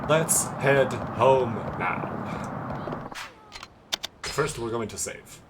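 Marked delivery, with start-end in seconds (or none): 0.1-3.1 very slow, measured delivery; drawn-out stoic hero; stiff Kiryu line. Pretend.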